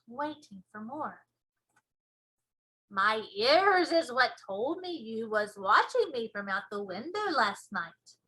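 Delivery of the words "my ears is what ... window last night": slow, loud proud giant; BFG giant voice. Acted. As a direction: show off the ears proudly.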